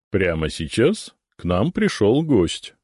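usual speaking voice

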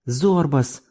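a lightly voiced cooing woman. A narrator's reading. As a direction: coo the name coaxingly. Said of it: "ворковала мадам".

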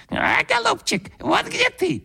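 very high squeaking bird voice; a bird's beak mocking the grandfather, very high squeak; squeaky bird beak. A narrator's reading. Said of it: "запищал птичий нос".

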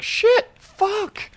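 high, startled yelped curse; mock panic. Boy swearing at the sight of a ghost, high mock panic. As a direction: yelp it in comic alarm.

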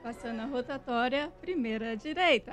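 even, flat navigation read; GPS voice. Shown as a demonstration. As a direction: sound like a car GPS. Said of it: "é igualzinho".

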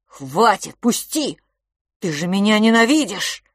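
loud hurt shouting; boy accusing his twin of hating him; anguished accusation. Acted.

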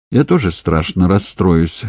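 ordinary delivery

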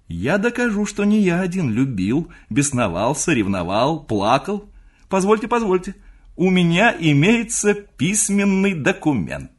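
put-on high, loud, eager young man; triumphant young nephew. High excited young nephew. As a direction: nephew gleefully threatens to expose his uncle, high and loud.

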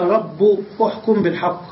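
"رب" said "rabbu", ending in u; damma ending. Shown as a demonstration. Teacher quoting a rare reading, u ending on rabb. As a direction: close "رب" on a u vowel. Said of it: "فبنيت الكلمة على الضم".

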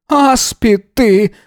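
high, slow cry of an insult; shouting. A narrator's reading. Yana shouting an insult at the officer, high and slow. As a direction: hurl the insult. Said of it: "крикнула она".

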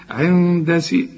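عند with drawn nasal hum, then light "si"; hidden noon. Shown as a demonstration. Teacher checks student follows, عند with long nasal hum. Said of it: "اخفيها وغنها".

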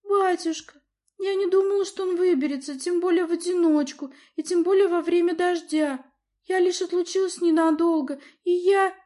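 plead, near tears; pleading girl. A narrator's reading. Daughter desperately justifies herself to father.

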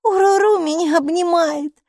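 high, loud gleeful character voice; amused delight. A narrator's reading. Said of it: "засмеялась Майки".

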